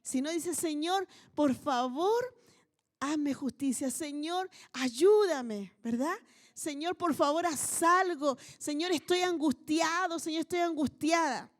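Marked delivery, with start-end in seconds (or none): 0.5-5.7 drawn-out pleading cry to God, swelling on ayúdame; pleading prayer. Shown as a demonstration. Preacher voicing a believer crying out to God, pleading. 6.5-11.5 urgent, pressing cry of distress to the Lord; anguished plea. Shown as a demonstration. Preacher showing the congregation how to cry out, anguished.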